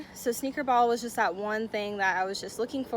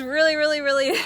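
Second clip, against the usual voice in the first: louder, laughing through the words; laughing excitedly; 6 semitones higher, 9 dB louder, faster than usual. Real, not acted. The speaker telling viewers about her photos, laughing excitedly. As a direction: giggle with excitement.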